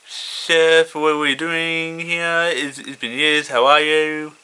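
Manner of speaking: muffled through a hood. Retold or imitated. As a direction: speak as if through thick fabric. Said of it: "in his muffled voice".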